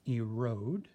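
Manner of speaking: erode with a drawn-out long O. Shown as a demonstration. Teacher to class, the O in erode sounded out clearly. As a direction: stretch the O in erode. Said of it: "You can hear the O sound".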